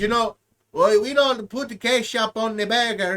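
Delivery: lightly put-on Hispanic accent as Carlos; a hint of a Hispanic accent; mock Hispanic accent. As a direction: play a bad Hispanic character, lightly. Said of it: "bad Hispanic".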